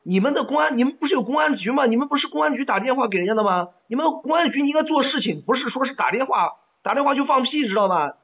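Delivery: heated, indignant phone complaint; angry caller berating an official; agitated. Real, not acted. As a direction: argue it worked up, losing your cool. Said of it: "你冷静一下好吗".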